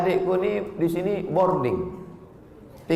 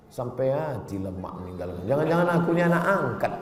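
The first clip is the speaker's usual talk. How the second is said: sulking student; 6 semitones lower, faster than usual. Retold or imitated. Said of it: "sedang sedih di pojok".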